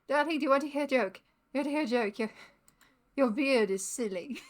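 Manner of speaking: lightly voiced, quick old Hollywood accent; affected old-fashioned accent. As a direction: tell a bad joke in a mildly affected Hollywood accent. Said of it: "like, affected accent".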